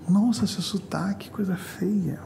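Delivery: put-on whispered sneer at a foreign accent; mock disdain. American sneering at a Brazilian's accent, whispered mockery. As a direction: sneer at his accent under your breath.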